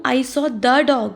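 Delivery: slow, deliberate example sentence; teacher demonstrating a slow example. Shown as a demonstration. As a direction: spell it out slowly for the class. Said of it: "किसी specific dog".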